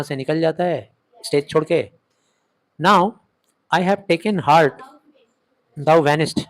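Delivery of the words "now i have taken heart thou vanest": slow, louder dramatic reading of Brutus. Acted. Brutus to the vanishing ghost, slow bold declaiming. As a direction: declaim it as newly brave Brutus. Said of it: "Brutus कहता है".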